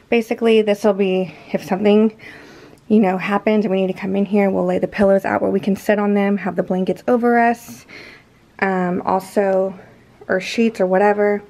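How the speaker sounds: out of breath, panting between phrases; winded from hauling heavy water; gasping for air. Real, not acted. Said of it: "I'm out of breath from moving that water".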